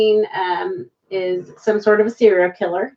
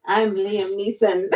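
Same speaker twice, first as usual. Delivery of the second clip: slow, lightly put-on Irish accent; a hint of Irish, said slowly; 3 semitones lower, 5 dB quieter, slower than usual. Shown as a demonstration. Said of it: "I want you to do an Irish accent".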